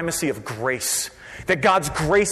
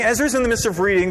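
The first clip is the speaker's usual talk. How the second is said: ordinary delivery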